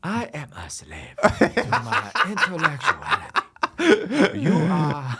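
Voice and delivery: high, slow hammy lament; dramatic overacted proclamation; pompous mock voice. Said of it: "mock lofty voice of note".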